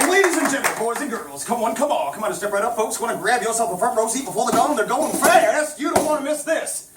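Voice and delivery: carnival barker calling out; step-right-up huckster pitch; chirpy trade show pitch. Acted.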